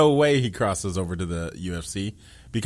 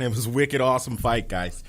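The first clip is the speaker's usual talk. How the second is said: put-on Boston accent. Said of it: "Give me some of that Boston accent".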